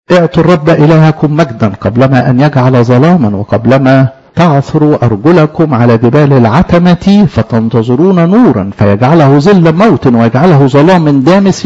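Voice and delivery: slow, measured verse reading; solemn slow scripture recital; scripture recitation. Acted. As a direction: intone the verse slowly like a reading.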